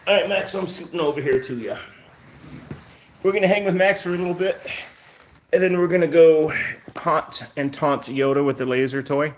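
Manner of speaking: high, fast talk to the cat; chirpy voice for the cat; pet talk. Real, not acted. Talking to his cat.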